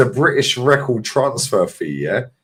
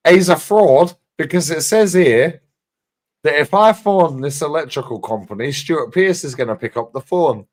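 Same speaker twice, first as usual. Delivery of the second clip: put-on Brian Clough accent; 4 semitones higher, 3 dB louder than usual. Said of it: "nails his fucking accent".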